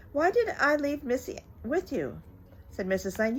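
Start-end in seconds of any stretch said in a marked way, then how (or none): 0.1-2.2 exasperated mother. Acted. Mrs Lane regrets leaving baby.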